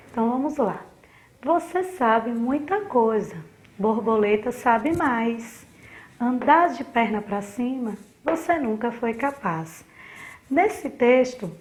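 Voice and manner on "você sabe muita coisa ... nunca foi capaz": unhurried classroom read-aloud, respecting punctuation; slow careful reading. Shown as a demonstration. Teacher reading a short poem to the class, slow and measured. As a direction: read the verse pausadamente, pausing at every comma and period. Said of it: "nós vamos ler pausadamente".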